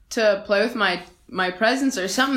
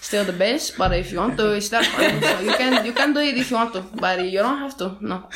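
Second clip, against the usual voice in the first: put-on light Cuban-accented third base coach, a bit fast; a hint of a Cuban accent as a chatty base coach; mild Cuban accent. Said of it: "It's more like maybe Cuban".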